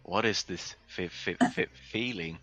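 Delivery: low voice, stammering on every word; stuttering. Acted. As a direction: stammer through it nervously.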